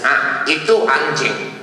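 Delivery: slow, drawn-out local waiter. Retold or imitated. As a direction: let the answer hang, slowly. Waiter voiced in the story.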